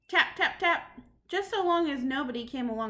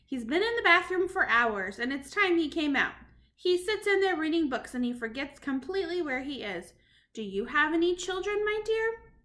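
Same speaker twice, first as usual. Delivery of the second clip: grandmother voice; 4 semitones higher than usual. Acted. Grandmother answers the witch sweetly.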